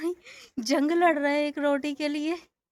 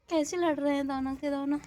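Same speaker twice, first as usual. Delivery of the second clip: laughing while talking; 5 dB quieter than usual. Real, not acted. Laughs watching calves fight.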